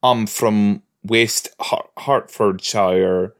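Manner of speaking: slow whispered mock British accent. Host imitates a British accent she wishes Spike had, whispered and slow. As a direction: whisper an English accent, slowly. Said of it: "I would have loved, like".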